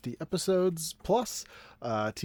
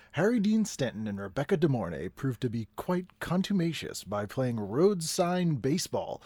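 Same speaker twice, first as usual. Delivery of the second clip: newsreader voice. Acted. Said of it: "straight newsread guy for the sentence".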